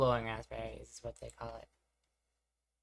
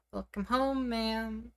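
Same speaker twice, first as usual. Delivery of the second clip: much higher feminine voice attempt; femme voice try; 9 semitones higher, much slower than usual. Shown as a demonstration. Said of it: "Does it say I do my best femme voice?".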